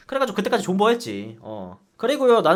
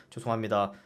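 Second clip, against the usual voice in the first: meek apology; 9 semitones lower, 10 dB quieter than usual. Retold or imitated. Scolded soldier apologizing.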